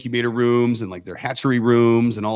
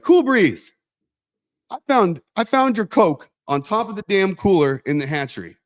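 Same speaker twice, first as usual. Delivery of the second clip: much higher and louder call across the room; calling out angrily; 8 semitones higher, 4 dB louder than usual. Retold or imitated. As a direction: shout across a full office, exasperated. Boss calls out employee in office.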